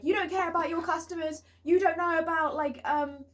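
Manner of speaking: half-hearted retold yell; mock shouting. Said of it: "he started shouting at me".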